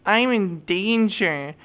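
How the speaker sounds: drawn-out, hammed-up cry for help; slow, pleading mock fright; mock scared plea. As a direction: play up being helpless and in danger. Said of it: "have a safety vest on and be like".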